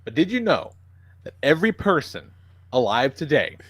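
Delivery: clickbait video narrator. Pretend. Mock trivia video narration.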